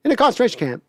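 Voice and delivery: clumsy Walken watch monologue; Walken impression. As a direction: riff on the gold watch speech as Walken. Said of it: "I'm not doing a horrible Walken".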